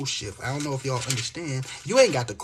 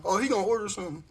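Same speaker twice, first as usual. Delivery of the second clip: high, loud mock voice of careless women; imitating the women brushing him off; 8 semitones higher, 9 dB louder than usual. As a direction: ham up their shrug, louder at the end. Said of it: "You know what they got on their mind?".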